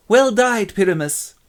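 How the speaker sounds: high, loud mock praise; audience cheer. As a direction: shout approval from the stalls.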